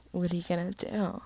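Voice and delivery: mock-seductive, lilting rise at the end. Shown as a demonstration. Reader redoing Peter's line seductively, hammed-up. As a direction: tease it out like a flirt. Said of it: "how you say".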